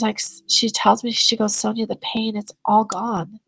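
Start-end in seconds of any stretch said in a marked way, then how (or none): 1.5-3.4 hushed retelling, slowing to a near whisper; emotional. Retold or imitated. Client tells her practitioner the pain has left, softly emotional. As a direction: let the voice fade out on the relief. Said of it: "starts to become really emotional".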